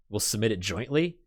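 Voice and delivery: sneering echo of her offer, rising at the end; a father mocking his daughter's offer; mocking repeat. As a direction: throw her words back at her with scorn.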